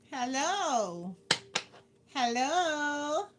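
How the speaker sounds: normal talking voice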